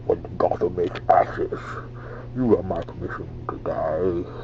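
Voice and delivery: masked villain voice, tailing into a whisper; tentative attempt at a menacing villain; Bane. Shown as a demonstration. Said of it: "I'm not getting it right".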